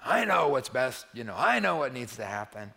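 stamp your foot, you know best; demanding. Retold or imitated. Mimicking a demanding believer.

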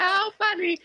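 high, sing-song mock adoration; doting adults. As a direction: gush over the child like a charmed relative. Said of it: "And everyone goes like".

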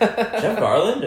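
stunned fan spotting a celebrity; amazed recognition. Retold or imitated. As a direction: stretch it out like you can't believe it's him.

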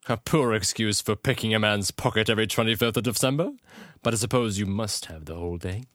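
put-on British accent for an indignant line. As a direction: play it as a British character. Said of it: "I could do a British accent".

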